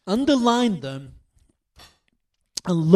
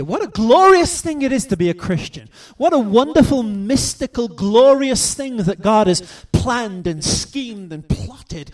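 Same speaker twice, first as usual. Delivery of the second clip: rejoicing; 4 semitones higher, 5 dB louder than usual. Real, not acted. Preacher rejoicing over the gospel.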